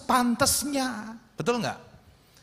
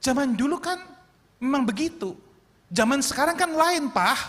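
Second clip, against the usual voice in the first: talking back; 5 semitones higher than usual. Retold or imitated. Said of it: "anak-anak kami bisa nyautin".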